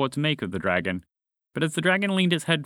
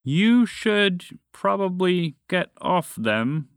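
gentle; 6 semitones higher, much slower than usual. A narrator's reading. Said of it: "the dragon said gently".

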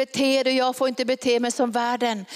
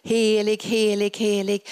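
calling out. Pretend. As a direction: proclaim it, then let it fall. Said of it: "vi kommer att ropa till varandra".

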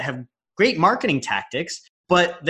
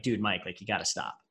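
gentle warning; 5 semitones lower, 11 dB quieter than usual. Retold or imitated. Imagined friend's gentle warning.

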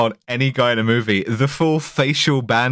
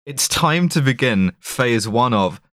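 mock villain announcement; 3 semitones lower than usual. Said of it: "they're like".

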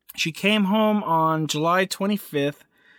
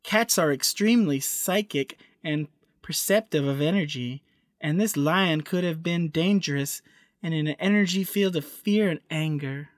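hippie voice. Retold or imitated. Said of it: "That wasn't a really good hippie voice".

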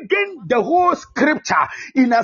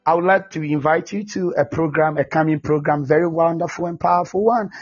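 lower, sweet-talking evangelist inviting a stranger; smooth inviter; 7 semitones lower than usual. Retold or imitated. Mimicking a city evangelist handing out flyers, lower and sugary. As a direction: coax them like a smooth street evangelist.

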